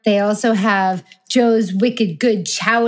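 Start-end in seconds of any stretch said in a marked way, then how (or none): 1.3-2.9 lightly put-on New England accent, dropped r. Regional name said in New England accent.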